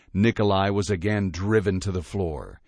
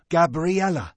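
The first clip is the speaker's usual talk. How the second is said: barked name; 9 semitones higher than usual. A narrator's reading. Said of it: "he barked".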